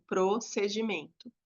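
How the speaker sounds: procedimento slowly, broken after "pro"; split word demo. Shown as a demonstration. Teacher showing pupils where the word breaks at line end, split slowly. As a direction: say procedimento in two parts, pausing after pro. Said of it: "Daí vai ser assim".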